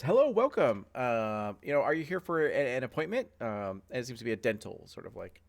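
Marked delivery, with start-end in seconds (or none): 0.0-3.3 receptionist. Acted. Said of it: "and goes".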